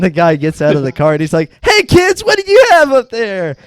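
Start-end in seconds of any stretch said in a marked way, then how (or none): 1.6-3.6 much higher cartoon dad voice; dad to kids, hammed-up friendly call; mock clueless dad. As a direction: chirp it like a dopey father. Voicing dad in sketch.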